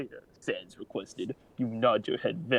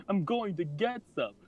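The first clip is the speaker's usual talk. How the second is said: super awkward voice; 9 semitones higher than usual. Acted. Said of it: "super awkward talking voice".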